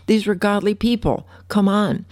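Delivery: high exasperated complaint; high exasperated come on; frustrated plea. Retold or imitated. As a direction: let the frustration burst out. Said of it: "outbursts of frustration and upset".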